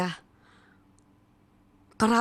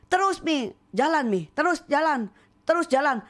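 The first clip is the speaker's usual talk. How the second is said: encouraging husband; 4 semitones higher than usual. Retold or imitated. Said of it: "Suami saya kuatin".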